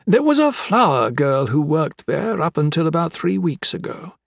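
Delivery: lilting, reminiscing dialogue voice; wistful crime boss. Acted. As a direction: recall her fondly while holding a threat.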